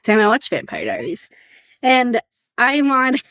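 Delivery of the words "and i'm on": giggling through the words; laughing. Real, not acted. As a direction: laugh while admitting it. Confessing binge of Vampire Diaries.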